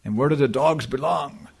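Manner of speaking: slow, weighty lecture quote; quoting Prithu's lecture. Retold or imitated. Retelling Prithu's famous lecture, slow and solemn. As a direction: deliver it slowly like a preacher. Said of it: "He said".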